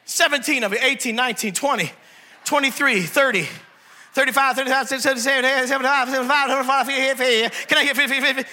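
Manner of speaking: fast counting auction patter; auctioneer. Pretend. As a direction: rattle off numbers like an auctioneer. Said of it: "I feel like an auctioneer today".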